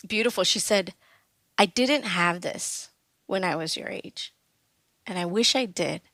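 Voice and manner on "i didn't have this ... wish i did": tender. Retold or imitated. Mom's tender words.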